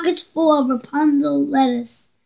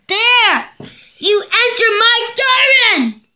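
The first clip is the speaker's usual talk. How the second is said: high, screechy witch demand; 6 semitones higher than usual. Acted. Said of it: "Stretched the witch".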